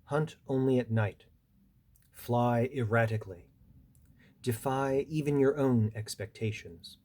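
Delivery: deliberate recital, each instruction set apart; poem reading. Acted. Poet reading a bat's advice to listeners, deliberate recital. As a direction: give each line its own breath, like measured counsel. Reads own poem aloud.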